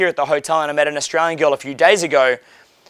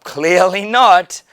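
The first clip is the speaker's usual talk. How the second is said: dry retort; 2 semitones higher, 3 dB louder, much slower than usual. Retold or imitated.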